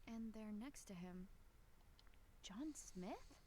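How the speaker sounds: whispered question. Acted. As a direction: hush it, just breath. Discovering photo, whispered.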